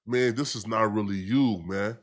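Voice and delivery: tender plea. Retold or imitated. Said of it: "He tender".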